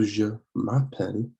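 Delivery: "je m'appelle" with the M linked into "appelle"; linked sounds. Shown as a demonstration. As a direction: model "je m'appelle" as one joined French phrase. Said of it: "link these two sounds together".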